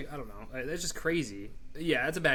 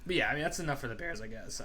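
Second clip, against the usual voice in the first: voice crack. Real, not acted. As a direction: voice cracking mid-sentence. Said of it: "Oh, voice crack".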